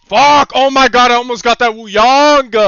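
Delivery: loud frustrated outburst; frustrated shout. Real, not acted. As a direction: yell it in frustration. Near kill in game.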